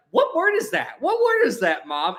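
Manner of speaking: put-on curious kids. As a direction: beg like curious kids asking mom. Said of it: "we were like".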